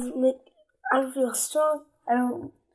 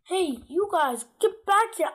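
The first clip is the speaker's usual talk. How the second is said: bossy call; 6 semitones higher than usual. Acted. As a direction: call the kids back like you're in charge. Child reads a bossy character.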